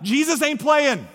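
high, slow, drawn-out declaration; emphatic proclamation. Real, not acted. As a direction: proclaim it forcefully, stretching the words. Preacher applies the catchphrase to Jesus.

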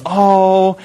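lightly voiced delighted wife, slow; a gentle mock of a moved wife; wife thanked for flowers, mildly gushing; touched wife. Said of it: "And she goes".

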